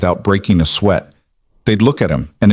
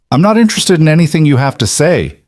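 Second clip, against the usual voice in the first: curt dismissal; 7 semitones higher than usual. Acted. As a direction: shut him down hard. Noah rebuffs captured man.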